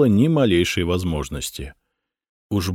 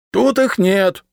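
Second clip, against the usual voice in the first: higher, louder, leaning on ИХ; stubborn; 13 semitones higher, 5 dB louder, slower than usual. A narrator's reading. Decurion stubbornly answering the patrikios. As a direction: stubbornly repeat the denial. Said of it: "упрямо ответил десятник".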